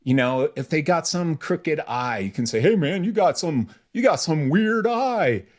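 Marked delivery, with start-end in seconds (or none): 2.6-5.4 mock rude question. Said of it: "don't use that one as an example".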